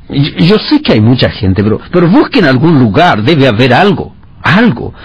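begging Joseph. A narrator's reading. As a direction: beg him for any place at all.

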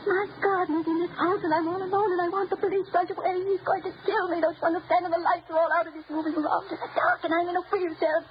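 begging the operator for help, close to tears; frightened plea. Acted. Terrified call to operator.

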